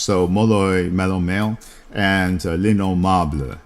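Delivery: "Molloy", "Malone" and "L'Innommable" said the French way, "L'Innommable" nasal; French pronunciation. Shown as a demonstration. Reading out the original French titles to viewers, in French pronunciation. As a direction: give the titles in French, lee-no-MAHBL. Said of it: "in French".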